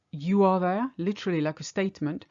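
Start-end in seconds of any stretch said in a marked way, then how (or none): 0.1-0.9 "You are there" as a question, rising on "there"; rising question intonation. Shown as a demonstration. French teacher showing a statement turned into a question, "there" rising. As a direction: let the voice go up at the end of "there". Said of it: "your voice goes up at the end".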